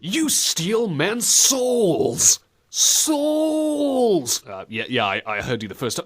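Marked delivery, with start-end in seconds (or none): 0.0-4.4 high, very slow, "souls" stretched long; hammed-up line swelling into a drawn-out "souls"; overdone emphasis on souls. Co-host mocks game hero accusing Dracula, stretching "souls" high and long. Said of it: "way too much emphasis on souls".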